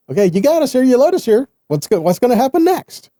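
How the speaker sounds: a touch of comic exasperation at Yahweh; exasperated Moses. Retold or imitated. Moses looking up to Yahweh, mock bewildered. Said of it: "It's like".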